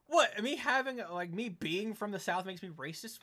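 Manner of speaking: sudden loud high what, then protest; indignant shock. Real, not acted. Streamer stunned at chat calling him racist, loud indignant shock. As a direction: blurt out in offended disbelief.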